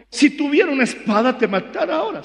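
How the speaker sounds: Balaam enojado. Acted. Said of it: "lleno de su enojo".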